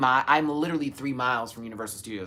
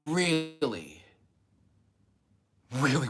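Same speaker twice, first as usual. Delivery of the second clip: excited; 6 semitones higher, slower than usual. Real, not acted. Drawn-out longing repetition.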